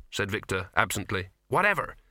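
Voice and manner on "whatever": loud, high brush-off; dismissive. Acted. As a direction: wave it away impatiently. Ginger brushing off correction.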